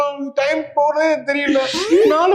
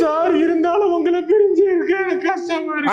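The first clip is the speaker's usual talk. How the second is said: mock wail. Student wailing to sir.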